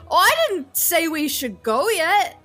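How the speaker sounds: loud, high protesting dwarf; indignant dwarf. Acted. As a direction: demand another round, offended. Dwarf demands a rematch.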